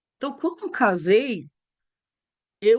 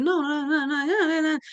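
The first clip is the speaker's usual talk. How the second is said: husband cutting off; 7 semitones higher, much faster than usual. Retold or imitated. Husband cuts wife off.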